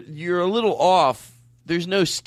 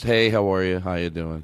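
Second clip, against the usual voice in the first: lowkey jingle voice; 8 semitones lower than usual. Acted. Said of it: "This is just".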